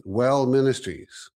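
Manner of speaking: slow, solemn announcement; God's voice. Retold or imitated. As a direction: lay down each word like a divine message. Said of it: "and he goes".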